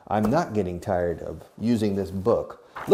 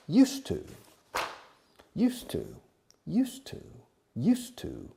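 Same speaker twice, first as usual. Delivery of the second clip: 1 drill repetition; 11 semitones higher, 4 dB quieter than usual. Shown as a demonstration. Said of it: "repeats new expression for class".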